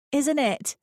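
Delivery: polite and agreeable; Lucy's voice. A narrator's reading. Lucy answering the old lady, lightly voiced.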